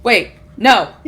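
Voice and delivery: acted confused panic with a touch of laughter; bewildered, flustered little questions; panicked elf. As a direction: flounder in mock panic. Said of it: "elf looking around panic".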